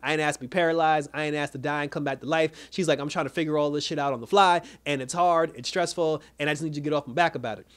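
mildly indignant, emphatic list of grievances; retold upset. Recapper quoting the heroine to B, mildly upset. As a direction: imitate someone venting back in an argument. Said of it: "that's when Ava got upset".

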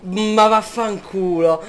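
slow drawn-out swear; exasperated curse, dragging it; explosive italian cursing. Real, not acted. Fails again, curses.

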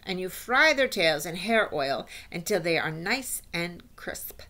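lightly voiced witch explaining her recipe; instructing witch. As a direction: lightly play a witch lecturing her followers. Voices the Grand High Witch.

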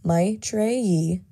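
"Maitreyi" as MY-tray-ee; preferred pronunciation. Shown as a demonstration. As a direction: say "Maitreyi" slowly, in three clear parts. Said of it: "I like to pronounce my name".

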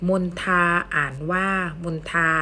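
มนทา read "mon-tha", with aspirated t. Shown as a demonstration. Teacher reading an example to students, มนทา with aspirated t. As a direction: say มนทา with an airy t and long final vowel. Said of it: "จะอ่านออกเสียง".

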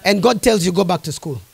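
quiet. Real, not acted. Preacher describing resistance, quiet and low. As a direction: sink to a near hush.

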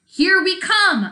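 high, loud, slow snaky announcement; hammed-up snake villain; snake announcing. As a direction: slither out a villain's boast. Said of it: "announced Sliver".

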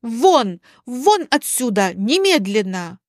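emphatic, separate commands; acted anger, held short of shouting; angry ordering out. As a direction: order them out on the spot. Alina throws the guests out.

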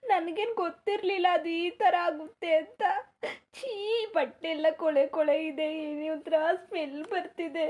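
a crying complaint to the mother-in-law; tearful whining. Acted. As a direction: whimper it out through tears. Daughter-in-law crying while being scolded.

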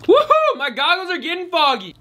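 slurping noodles between words; eating while talking. Real, not acted. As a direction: mouth full of ramen. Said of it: "Let's get slurping".

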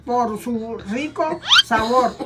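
halting, drawn-out script reading; slow reading. Shown as a demonstration. Mother retrying the ad line, slow reading. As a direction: read it very slowly, stumbling between words. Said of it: "léelo lento y mirando la cámara".

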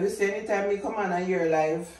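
talking while chewing gum; words round a wad of gum. Real, not acted. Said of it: "Me just a talk with a bubble gum in my mouth".

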